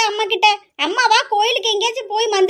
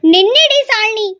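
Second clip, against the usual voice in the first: louder, slow stretched call; chasing sister yells after runaway Shalini, slow and loud; drawn-out yell; 5 dB louder, slower than usual. Acted. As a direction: drag it out, shouting after her.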